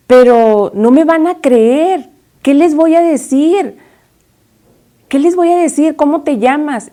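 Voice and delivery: mildly acted anxious objection; worried protest. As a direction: protest helplessly, pitch climbing on the questions. Moses doubtfully objects to God.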